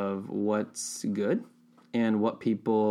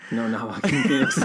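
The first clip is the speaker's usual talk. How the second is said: laughing. Real, not acted. Laughing at the joke.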